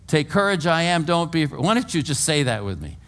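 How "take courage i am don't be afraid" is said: mildly raised, higher voice; shouted. Acted. Jesus to disciples in the storm, shouting. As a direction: call it out over a storm. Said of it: "he had to have shouted it".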